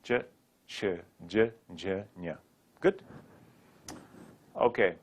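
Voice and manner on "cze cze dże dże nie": slow, low, softer syllable drill; unhurried demonstration, dropping away softly; slowly. Shown as a demonstration. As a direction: space each syllable out for the learner. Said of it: "Now say it slowly".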